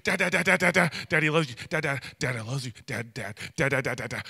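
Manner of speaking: put-on over-eager father coaxing his baby; frantic coaxing. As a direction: beg the baby to say it. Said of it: "I was just going crazy".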